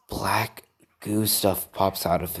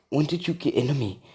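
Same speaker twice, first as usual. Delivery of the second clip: higher, quicker, panicky question; freaking out; 6 semitones higher, faster than usual. Acted. Boy questions the creature that got into him, freaking out. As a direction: blurt it in a rising acted panic. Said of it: "And he's freaking out".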